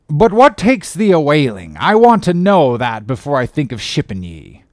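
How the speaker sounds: put-on an old salt sizing up a greenhorn, loud and gruff; gruff old sea captain. Old captain interrogating a would-be sailor, loud and gruff.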